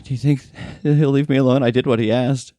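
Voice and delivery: high, anxious victim's voice; shaken housekeeper. Acted. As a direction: ask timidly as the rescued housekeeper. Plays the housekeeper, calmer.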